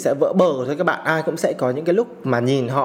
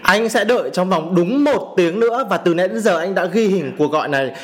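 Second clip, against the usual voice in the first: angry; 3 semitones higher than usual. Real, not acted. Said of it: "cái cảm xúc của mình nó rất là dữ dội".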